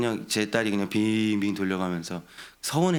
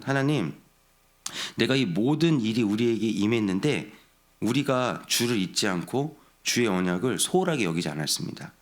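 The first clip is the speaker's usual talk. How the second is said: mild imitated lament; a touch of pleading sorrow, raised on 하나님. The psalmist lamenting to God, a touch of sorrow. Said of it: "탄식하듯이 이야기하고 있는".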